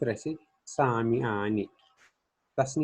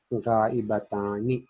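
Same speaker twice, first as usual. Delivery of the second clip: slow answer; much slower than usual. Shown as a demonstration. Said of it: "क्या बनेगा?".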